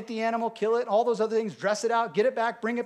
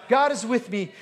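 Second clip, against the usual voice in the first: declared; 3 dB louder than usual. Shown as a demonstration. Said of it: "You need to declare that".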